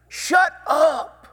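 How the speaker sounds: high, loud "Shut up", snapped at the beggar; shouted rebuke. Retold or imitated. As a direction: shout him down sharply. Crowd silencing the blind beggar.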